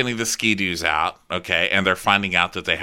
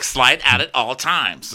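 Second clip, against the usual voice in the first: higher, drawn-out demand; mock imperious; 4 semitones higher, 4 dB louder, slower than usual. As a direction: imitate a bossy guest slowly. Acted guest's imperious demand.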